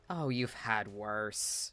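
reassuring. Acted. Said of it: "lean down a little bit and say".

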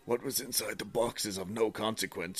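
lightly voiced woman's last message; man doing a woman's voice. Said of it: "Oh, no, this is still her".

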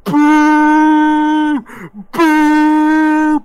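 long, loud, high boos; sustained high-pitched booing; crowd booing. Acted. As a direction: jeer like a whole angry crowd. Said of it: "And you just hear".

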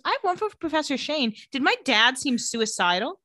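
high, quick mock interview question; April's voice. April asking Professor Shane about her dad, lightly imitated in a high voice. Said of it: "And she says".

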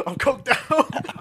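slow, drawn-out mock excuse; dazed barber.

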